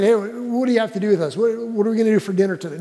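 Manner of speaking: breezy, casual, rattled off fast; mock friendly. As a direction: make it sound like chatting about dinner. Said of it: "This is not a friendly moment".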